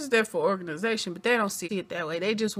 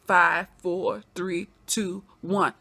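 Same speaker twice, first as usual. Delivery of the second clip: building suspense countdown; dramatic countdown; 2 semitones lower, much slower than usual. Real, not acted. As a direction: count down to the big reveal. Countdown to reveal.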